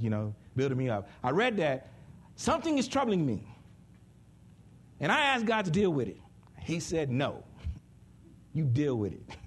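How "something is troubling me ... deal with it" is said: wrong reading. Shown as a demonstration. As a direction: whine it as the misreading. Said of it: "That's not what he said, though".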